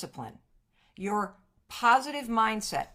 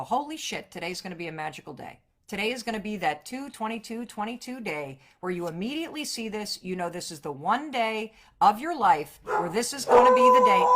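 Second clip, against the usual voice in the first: building excited self-talk; 4 dB louder than usual. Pretend. Acted morning self-talk, builds.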